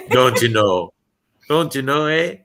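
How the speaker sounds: put-on light Upper Midwest accent, ending on a questioning eh; mock Wisconsin accent. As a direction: imitate the college roommate's northern Wisconsin accent. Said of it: "he would always talk about tapioca pudding".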